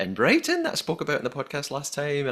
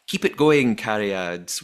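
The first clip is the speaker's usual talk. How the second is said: light Welsh lilt on Cariad; reading a fan's line in a Welsh accent; 3 dB louder, slower than usual. Retold or imitated. Podcaster quoting Fiona's message, mild Welsh accent. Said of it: "That's my Welsh accent".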